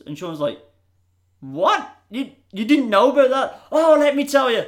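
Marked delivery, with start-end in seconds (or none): 1.4-4.6 much higher and louder, eager and laughing; thrilled Sean who can't wait to share; excited boast. Retold or imitated. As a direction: burst out keen to tell the story.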